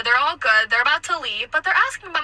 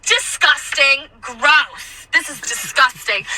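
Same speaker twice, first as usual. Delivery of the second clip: disgusted customer; much slower than usual. Retold or imitated. Customer acted as revolted.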